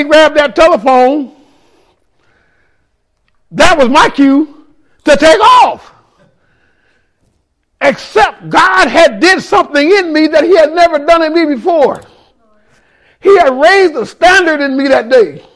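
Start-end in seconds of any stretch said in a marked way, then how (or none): 3.5-5.9 slow shouted punchline. Acted. Comic punchline shouted slowly. 7.8-12.0 preaching shout. Acted. Preaching climax.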